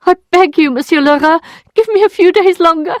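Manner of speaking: high, loud begging on the edge of tears; desperate begging. Acted. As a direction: plead for mercy, voice cracking high.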